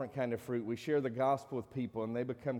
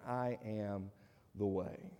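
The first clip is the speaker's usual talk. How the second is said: "I am the way" dropped lower and softer; preacher quietly echoes Jesus's claim; soft repeat; 5 semitones lower, 7 dB quieter, slower than usual. Shown as a demonstration. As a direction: let "I am the way" sink low and hushed. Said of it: "Jesus says he's the only way".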